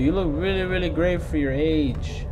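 mock flirty banter. Real, not acted. Gamer teasing a chasing monster with mock flattery. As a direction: sweet-talk the monster as a joke.

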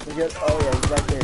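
sudden loud callout; alarmed shout; excited. Real, not acted. Spotting enemy.

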